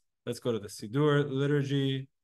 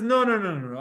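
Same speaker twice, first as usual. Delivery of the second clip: louder, higher insistent no's; firm refusal; 5 semitones higher, 4 dB louder than usual. Retold or imitated. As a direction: shut the idea down hard. Rabbi Yehuda objecting firmly.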